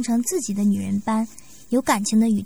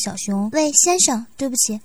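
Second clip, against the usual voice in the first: woman asking shyly; 5 semitones higher than usual. Acted. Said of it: "忍不住地问道".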